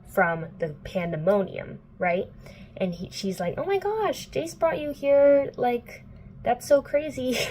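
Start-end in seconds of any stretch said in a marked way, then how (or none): 3.6-7.4 high, put-on excited girl voice; hammed-up amazement; mock gushing. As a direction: gush in a high voice. Retold gushing greeting by Isabel.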